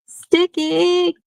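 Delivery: Sticky! jumps way up high in a squeaky silly voice; silly squeaky repeat. Pretend. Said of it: "I don't know why I did that".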